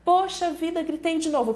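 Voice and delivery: high, exasperated sigh of a mother who slipped again; mock dismay. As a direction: throw it up high in frustration, half-played.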